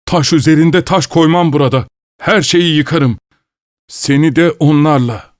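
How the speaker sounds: furious demand, building up; angry threat. Acted. Father threatens the abductor.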